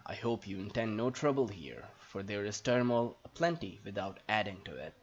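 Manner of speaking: low, wary town guard; lightly voiced guard. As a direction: read it as a guard challenging a stranger. Reads the guard's lines in character.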